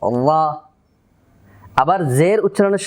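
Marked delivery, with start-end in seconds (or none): 0.0-0.5 "আল্লাহ" said as "ra" with raised tongue root; full, heavy r. Shown as a demonstration. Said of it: "জিহ্বার গোড়াটাকে উঁচু করে". (জিভের গোড়া উঁচু করে "আল্লাহ"-কে "রা" বলা)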